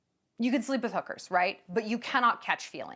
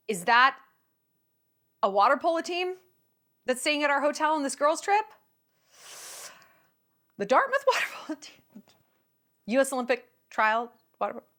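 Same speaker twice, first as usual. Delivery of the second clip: thrilled curiosity; 3 semitones higher than usual. Acted. Woman spotting athletes on girls' trip, giddy interest. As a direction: ask it rising, with a tempted laugh breaking in.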